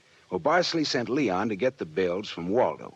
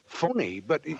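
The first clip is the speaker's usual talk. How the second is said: higher startled echo; stunned by the news; shocked echo; 8 semitones higher than usual. Acted. Shocked pearls are fake.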